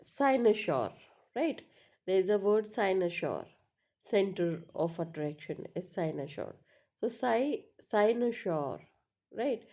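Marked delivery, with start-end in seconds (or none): 0.0-0.9 "cynosure" with a strong, long first syllable, falling after; teacher demonstrating the stress in "cynosure". Shown as a demonstration. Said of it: "So that's a stress". 7.1-8.8 "cy-" alone and high, then "cynosure" falling away; teacher's stress demonstration on "cynosure"; stressed first syllable. Shown as a demonstration. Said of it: "So that's a stress".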